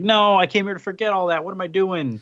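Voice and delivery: exasperated self-scolding. Retold or imitated. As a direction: act out telling yourself off. Acted self-scolding of the Beyonder.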